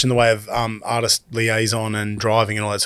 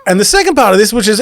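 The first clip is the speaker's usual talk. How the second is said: laughing through the words; 9 semitones higher, 6 dB louder, faster than usual. Real, not acted. Moving the story on after a slip, still laughing. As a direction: keep giggling as you carry on.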